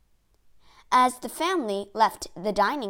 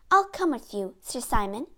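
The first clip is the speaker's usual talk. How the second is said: brave. Acted. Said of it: "she said bravely".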